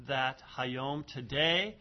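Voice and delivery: Hayom and today set apart, slow and loud; emphasis on Hayom. Shown as a demonstration. Teacher rereading the verse to students, slow emphasis on Hayom and today. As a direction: lean firmly on Hayom, then today. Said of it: "Notice the emphasis on the word Hayom there".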